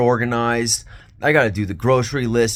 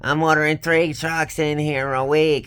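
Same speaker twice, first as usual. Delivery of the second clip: high, whiny mock of the boss complaining; mocking boss's scream; 5 semitones higher than usual. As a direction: imitate the boss shrieking about orders. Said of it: "and scream every time I fucking talked".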